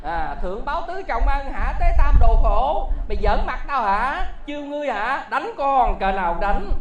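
put-on loud, scolding old master; furious father-in-law yelling at the young man; angry scolding. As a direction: shout him down for mocking you.

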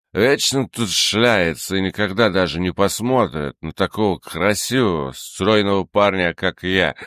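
put-on drunk, tongue too heavy to move; drunk slurring. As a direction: slur it out, blackout drunk. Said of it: "еле ворочая языком".

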